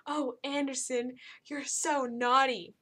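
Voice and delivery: mockingly slow, teasing flirt; mocking a flirty Kaylee. Reviewer mocks Kaylee flirting with Anderson, slow teasing coo. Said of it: "Kaylee says".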